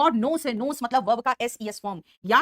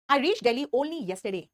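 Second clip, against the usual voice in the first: "I reached Delhi only yesterday" read very slowly; slow model read; slow dictation; 2 semitones higher, much slower than usual. Shown as a demonstration. Teacher reading the example to the class, slowly. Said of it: "Only इस yesterday को qualify".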